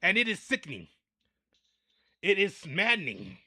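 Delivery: loud indignant rant, hammed up; mock outrage. Ranting to America, loud mock outrage. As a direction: bellow the outrage at the camera.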